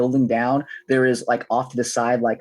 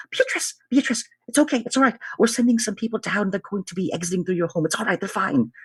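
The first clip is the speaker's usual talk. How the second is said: calling down; 7 semitones higher than usual. Acted. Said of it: "she, like, yells down".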